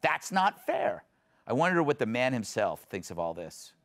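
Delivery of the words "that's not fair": drawn-out mock whine of protest. Host mimics the left crying foul, mock protest. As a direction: protest it slowly, stretching the words. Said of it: "the left is saying".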